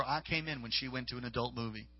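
a muted demon confessing. Retold or imitated. Demon repeats how it entered her, quietly and low. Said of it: "the voice told her".

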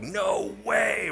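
high, drawn-out mock astonishment; blown away. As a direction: play a crowd stunned in disbelief. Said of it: "Everyone was blown away".

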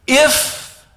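drawn out IF, high and loud; slow, deliberate reading. Shown as a demonstration. Preacher dwelling on Gideon's doubting word, slow and emphatic. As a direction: hang on the word if, punched high. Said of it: "I'm gonna read this slowly".

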